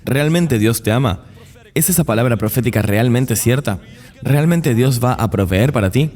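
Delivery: preguntas que siembran la duda; tono de interrogación. Acted. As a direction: cuestionar con entonación de pregunta, algo más alta. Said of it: "los convierte en signos de interrogación". (entonación interrogativa, poniendo en duda)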